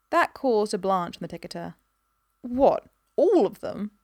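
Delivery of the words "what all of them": ALL high, loud and drawn out; incredulous question. A narrator's reading. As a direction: balk slowly, leaping up on "all". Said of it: "he said".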